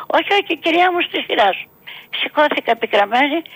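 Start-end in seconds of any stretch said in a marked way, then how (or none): 0.1-1.7 put-on higher, faster, firm refusal from the young lady; a lady turning her away, sharp and hurried; brisk refusal. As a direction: brush off the old woman, quick and high.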